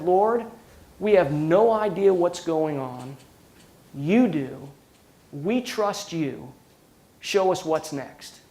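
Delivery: slow, hushed plain prayer; simple prayer. Retold or imitated. Leader praying with forty employees after the fire, slow and hushed. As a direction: pray it simply and slowly, trusting. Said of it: "and I just said".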